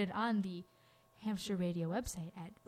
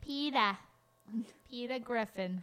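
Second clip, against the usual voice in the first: Peter Griffin voice. Retold or imitated. Radio host does Family Guy voices for cohost, mild. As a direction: toss off a quick Family Guy impression. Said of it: "really good at that voice".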